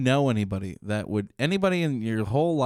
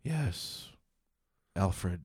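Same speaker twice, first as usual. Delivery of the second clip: mock Bruce Wayne; 5 semitones lower, 10 dB quieter, slower than usual. Bruce Wayne voiced in bit.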